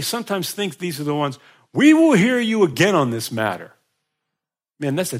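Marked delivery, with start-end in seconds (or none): 1.7-3.7 dismissive listener. Pretend. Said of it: "While others said".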